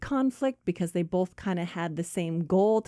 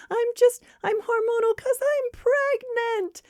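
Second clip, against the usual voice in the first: hormonal outburst; 4 dB louder than usual. Acted. Flustered friend blurts out her secret, wailing. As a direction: blurt it in a hammed-up meltdown. Acted outburst revealing pregnancy.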